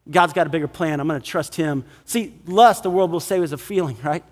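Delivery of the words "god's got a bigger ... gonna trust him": low, soft, settled voice; quiet trust. Acted. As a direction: lower and soften it, quietly trusting. Love's patient answer goes on.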